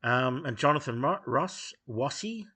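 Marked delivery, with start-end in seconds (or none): 1.9-2.4 stretched, mocking W sound opening "Wassy"; mock speech impediment. Critic mocking how Jonathan Ross says his surname, mock speech impediment. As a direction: say "Wassy" with the R turned into W, higher and drawn out. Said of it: "can't pronounce the R's".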